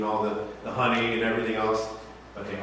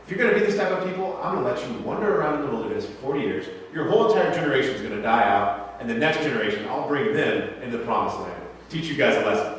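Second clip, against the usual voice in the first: mock angry God. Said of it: "He says".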